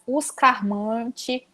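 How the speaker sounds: os carmante, devagar com R puxado; caipira accent. Shown as a demonstration. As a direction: diga os carmante lento, à caipira. (calmantes no sotaque caipira)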